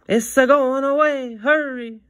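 high loud Italian grandma urging. Acted. Grandma telling the boy the bus is leaving. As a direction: hurry him like a worried grandma.

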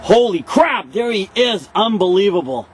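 a thrilled wildlife spotter; excited. Pretend. Mock spotting a rare creature.

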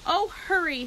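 high, loud, rushed; frantic. A narrator's reading. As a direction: urge him frantically. Wilbur frantic.

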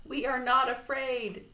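high, loud defiant cry; mild scream. A narrator's reading. Frog and Toad after the hawk, mock screaming. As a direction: call it out boldly, storybook scream. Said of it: "screamed Frog and Toad".

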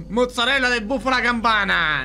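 high exclamation through laughter; gleeful shout. Real, not acted. Gleeful food cheer.

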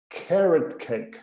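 carrot cake said slowly, each sound clear; English pronunciation demo. Shown as a demonstration. Teacher modelling carrot cake slowly for students. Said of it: "o Eric falou sobre o carrot cake".

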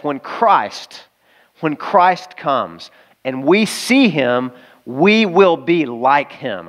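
slow, weighty reading of the verse; slow scripture reading. Acted. Preacher reads First John to the church, slowly.

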